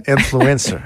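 Influencer said the English way, stress on -flu-; English accent. Shown as a demonstration. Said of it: "dis-le avec un accent anglais". (accent anglais sur Influencer)

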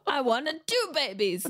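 lightly hammed-up tearful complaint; mock crying. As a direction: wail it a little in mock upset, half laughing. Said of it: "and she cries too".

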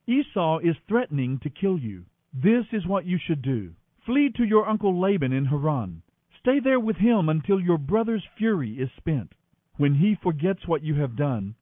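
storyteller voice reading Genesis aloud; dramatic Bible reading. A narrator's reading. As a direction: read it like a radio drama.

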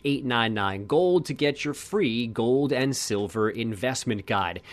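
slow, deliberate sponsor read. Acted. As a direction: read it like a radio ad. Reads the sponsor ad.

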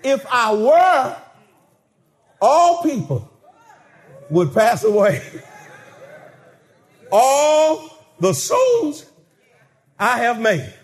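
slow commanding voice of God. Acted. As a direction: speak as God in judgment. Preacher voicing God.

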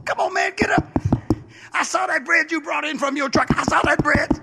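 high, pushy pleading; insistent begging neighbor. Acted. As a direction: wheedle him to get up.

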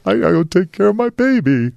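high, hammed-up worried mom voice; mimicking a frantic mother. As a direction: squeak it out like a panicky mom. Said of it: "She's like".

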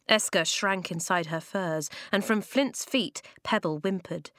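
ordinary delivery

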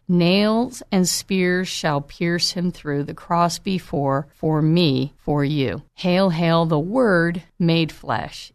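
slow, reverent rereading; slow poetic recital. Shown as a demonstration. Preacher dwelling on the carol line, slow and reverent. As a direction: linger on each word.

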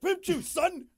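high excited hype; excited cheer. Retold or imitated. Host acting out hearing the song, excited cheer. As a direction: hype it up like the song just dropped. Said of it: "I'm like".

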